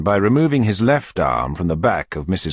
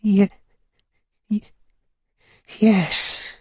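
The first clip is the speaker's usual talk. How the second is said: sighing stammer; 14 semitones higher, much slower than usual. Acted. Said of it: "sighed out the matron".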